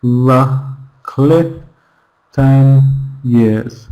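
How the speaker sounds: "la", "cli", "ten years" picked out separately; stressed syllables only. Shown as a demonstration. Teacher showing learners the stresses, "cli" and "ten years" set apart. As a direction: isolate each beat "la, cli, ten years" with gaps. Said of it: "We're stressing the stressed syllables".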